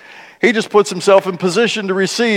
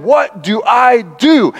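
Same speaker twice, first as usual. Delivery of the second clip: puzzled Nicodemus; 5 semitones higher, slower than usual. Retold or imitated. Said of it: "And Nicodemus going".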